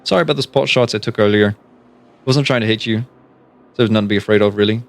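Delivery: put-on light Irish accent, menacing and casual; a lightly voiced Irish thug. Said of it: "I fucked up the accent".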